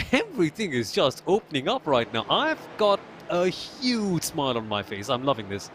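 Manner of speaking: smiling voice. Real, not acted. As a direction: let the smile come through. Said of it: "I can hear the smile in your voice".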